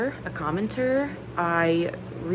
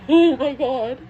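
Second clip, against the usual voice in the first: loud tearful laugh into raised voice; crying with joy; 4 semitones higher, 6 dB louder than usual. Real, not acted. Fan overwhelmed by ticket news, crying and laughing. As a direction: burst out high, overwhelmed by happy tears. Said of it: "I can't stop crying".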